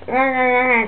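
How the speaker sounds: mouth full. Retold or imitated. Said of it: "I still had the potato in my mouth".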